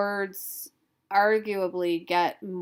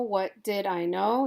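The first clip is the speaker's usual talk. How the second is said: What did I know? with know stressed and rising. Shown as a demonstration. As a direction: lean on "know" and let it rise. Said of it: "That's eight syllables".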